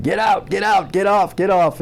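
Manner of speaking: quick repeated orders, pitched well up; retold drill-instructor screaming. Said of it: "they just start screaming".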